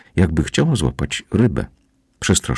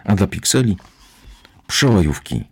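reassuring commando; 2 semitones higher than usual. Acted. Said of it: "uspokajał go komandos".

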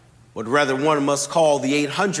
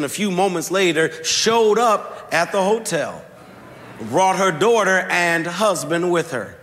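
rising sermon delivery; 2 semitones higher than usual. Acted. Preacher to congregation, building to the sermon's point. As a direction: lift the story toward the point.

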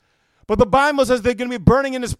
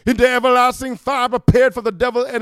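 voice of Jesus; 3 semitones higher, 6 dB louder than usual. Retold or imitated. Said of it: "will say".

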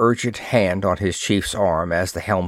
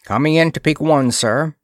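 brisk, raised call higher than the narration; 6 semitones higher, 3 dB louder than usual. A narrator's reading. Navigator reports the approach to his commander, calling out. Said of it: "he called".

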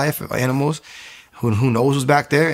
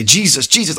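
higher, louder pleading repetition; desperate invocation; 4 semitones higher, 5 dB louder than usual. Retold or imitated. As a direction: re-enact desperately calling the name. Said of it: "I just didn't know what to do".

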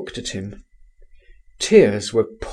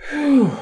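higher, airy whistle of surprise; whistled whew; 3 dB louder than usual. A narrator's reading. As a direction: whistle at the news. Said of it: "I whistled".

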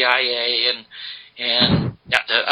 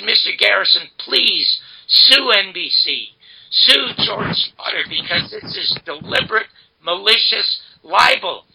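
retold sobbing; 5 semitones higher than usual. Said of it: "and I'm sobbing".

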